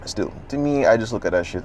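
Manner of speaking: ordinary talk, nothing marked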